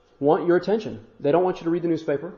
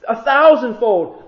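God speaking; 6 semitones higher, 7 dB louder, slower than usual. Acted. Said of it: "He says".

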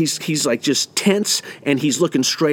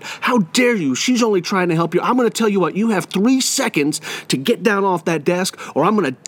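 higher-pitched mock threat, not shouted; retold stern scolding; 5 semitones higher than usual. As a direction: act out a teacher's bluffing ultimatum. Teacher scolds and threatens student.

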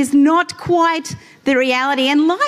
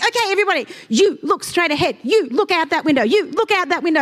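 firm parent giving orders, higher; stern mum voice; 4 semitones higher, faster than usual. Retold or imitated. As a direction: lay down the law to the kids. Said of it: "then it's like".

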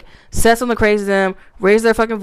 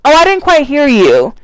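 mock taunt; 6 semitones higher, 4 dB louder than usual.

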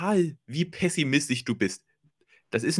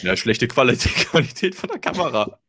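mock hater comment. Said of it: "Der disliked dann und sagt".

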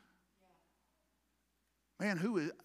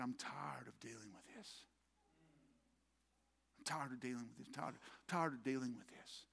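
low, hushed, worn-down voice; weary resignation; 6 semitones lower, 12 dB quieter than usual. Retold or imitated. Preacher voicing a tired David to the congregation, low weary resignation. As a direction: say it quietly, drained, as if fed up.

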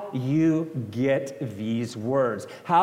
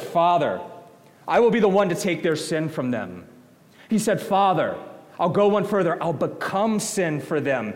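voicing Jesus.

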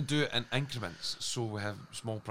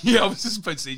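laughing; 9 semitones higher, 7 dB louder, faster than usual. Real, not acted. Laughing while talking.

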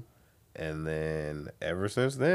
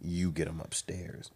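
quiet; 4 semitones lower, 7 dB quieter, slower than usual. Retold or imitated. Friend plotting in secret.

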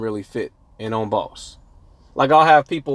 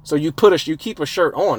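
higher-pitched heated clapback at a gym heckler; imagined comeback; 4 semitones higher than usual. Pretend. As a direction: tell the guy off like you wish you had. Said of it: "That's what I want to tell this dude".

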